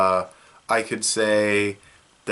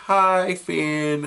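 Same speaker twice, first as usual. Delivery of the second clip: quoting a character; 8 semitones higher than usual. Retold or imitated. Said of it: "he's like".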